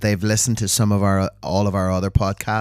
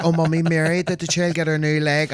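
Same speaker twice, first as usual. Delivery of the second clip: high Belfast woman voice; 7 semitones higher than usual. Shown as a demonstration. Acted Belfast neighbour dialogue.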